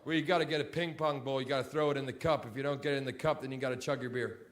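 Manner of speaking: lazy frat guy pitching a game; lightly voiced college bro at a bar; college boy. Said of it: "college boy who'll come to me and go".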